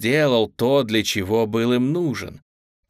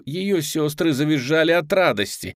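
plain reading voice

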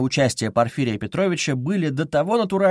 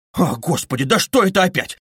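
mildly alarmed exclamation; understated fright; frightened cry; 4 semitones higher, 3 dB louder than usual. Acted. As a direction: cry out, a touch scared. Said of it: "вскрикнул, по-видимому, в совершенном испуге".

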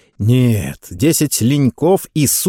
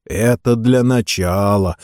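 instructive tone; slower than usual. Acted. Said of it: "наставительно сказал капитан".

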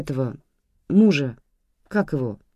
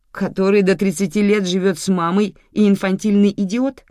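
scornful remark; 5 semitones higher, 6 dB louder than usual. A narrator's reading. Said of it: "заметила мама".

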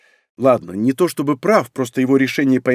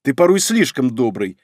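ordinary delivery, nothing marked

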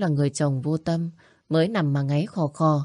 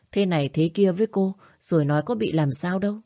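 ordinary delivery, nothing marked

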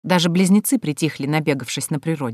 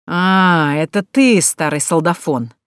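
sarcastic; 3 dB louder, slower than usual. Acted. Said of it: "язвительно выплюнул лорд".

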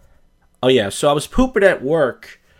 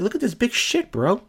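boasting sender; 10 semitones higher than usual. Retold or imitated. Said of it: "You're like".

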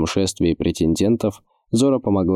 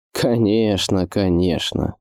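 cheerful gurgling voice; slower than usual. Acted. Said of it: "весело воскликнул лорд Пуль своим глубоким, как будто булькающим голосом".

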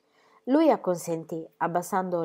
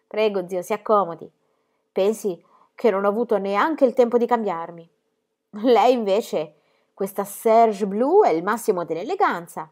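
lightly voiced girl, a bit higher and louder; a hint of a chirpy young girl teasing; young Gigi voiced; 4 semitones higher, 7 dB louder than usual. A narrator's reading. Gigi teases her uncle Gaston: lightly voiced girl.

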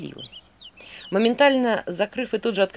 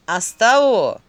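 venomous; 8 dB louder, slower than usual. A narrator's reading. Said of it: "ядовито заметил Филин".

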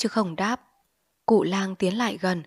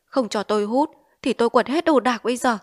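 threatening; 4 semitones higher, 5 dB louder than usual. Acted. Threatening to smash everything.

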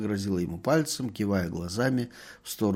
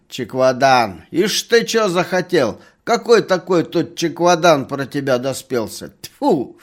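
loud, high scolding crone; angry lisping old woman; 5 semitones higher, 9 dB louder than usual. A narrator's reading. Old woman scolding the merchant who grabbed her, loud and high. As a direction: scold him like a cranky lisping granny. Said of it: "старуха всё ещё шепелявила ему вдогонку".

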